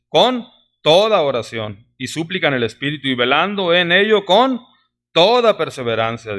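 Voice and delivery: "toda" said firmly after a lift and a pause; stress on toda. Shown as a demonstration. Preacher underlining "toda" while rereading the verse. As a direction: build up on "con", then drop down onto "toda perseverancia". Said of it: "aquí la palabra se repite".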